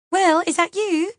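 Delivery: high, tearful call; high-pitched frightened question; weeping with fear. A narrator's reading. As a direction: call out as if terrified and crying. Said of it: "sounding as if she's weeping with fear".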